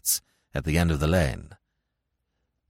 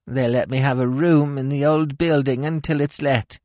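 whined; 5 semitones higher than usual. A narrator's reading. Old woman whines to Smith about her fall. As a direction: whimper like a hurt old hag. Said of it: "she explained".

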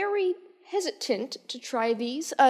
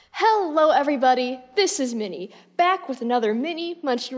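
upbeat vlog greeting. Acted. Vlog host opens the stream.

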